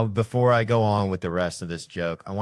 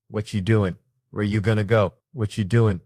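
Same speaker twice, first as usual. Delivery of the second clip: loud interrogating; 5 dB louder than usual. Retold or imitated. Guard roughing someone up.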